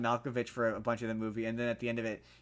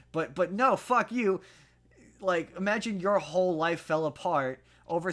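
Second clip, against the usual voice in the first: sudden, much higher, louder outburst; exasperated; 5 semitones higher, 4 dB louder than usual. Real, not acted. Podcaster rejects the film's take, exasperated outburst. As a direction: blurt it out in real frustration. Fed up with the film.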